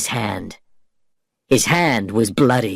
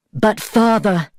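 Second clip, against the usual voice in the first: shouted plea; 9 semitones higher, slower than usual. Acted. Elizabeth pleading with her father for Jack, shouting. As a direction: call out to father in alarm. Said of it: "shouted Elizabeth".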